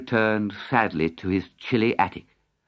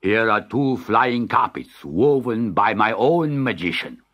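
regal sultan; 2 semitones lower, 3 dB louder than usual. Acted. Sultan voiced in story.

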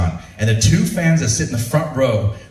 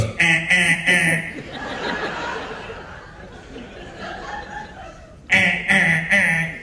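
error buzzer; 5 semitones higher, 5 dB quieter, much slower than usual. Retold or imitated. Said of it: "it goes".

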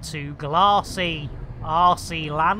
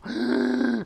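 pretend gasp; 3 semitones higher than usual. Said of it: "I'm out of breath now".

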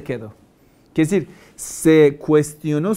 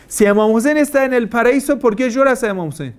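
mock challenge; 6 semitones higher than usual. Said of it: "Entonces la pregunta es al revés".

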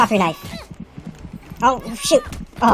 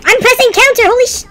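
shouted, higher, frustrated swearing at the game; angry yell; 7 semitones higher, 3 dB louder, faster than usual. Real, not acted. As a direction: yell it out in real rage. Raging at game failing.

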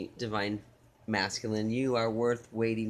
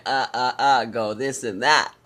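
flustered; 7 dB louder than usual. Acted. Flustered lover losing words.

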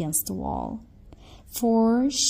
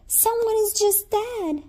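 put-on high, small child's voice; a child's hushed realization; little girl voice; 11 semitones higher than usual. A narrator's reading. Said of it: "said the little girl".

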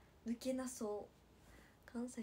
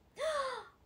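loud, high gasp; startled gasp; 14 semitones higher, 9 dB louder than usual. Real, not acted. Idol notices her own accent slipping, startled gasp. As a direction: gasp as if caught out.

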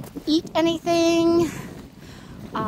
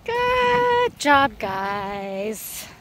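squeaky praising a dog; much slower than usual. Real, not acted. Praising dogs.

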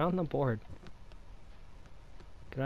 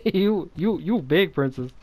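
loud teasing; 5 semitones higher, 8 dB louder, slower than usual. Real, not acted. Teasing partner loudly.

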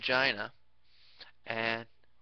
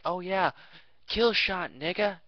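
higher, louder mock gamer brag; mock gamer bro; 8 semitones higher, 4 dB louder, slower than usual. Mocking a gamer bragging over a kill, high and loud. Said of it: "when you go like".

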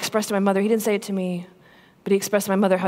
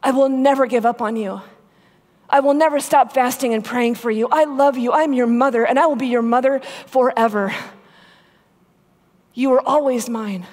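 impassioned vow; 5 semitones higher, 5 dB louder than usual. Retold or imitated. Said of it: "And she said".

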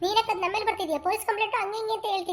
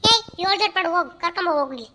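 calling out; 7 dB louder than usual. Acted. Mother rousing a child to go.

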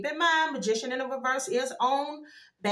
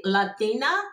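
"Latina" louder, in a strong Latina accent; 5 dB louder, slower than usual. Shown as a demonstration. Reader shows how she's getting it, strong Latina accent. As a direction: punch out Latina with a heavy Latina accent. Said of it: "like, that's how I'm getting it".

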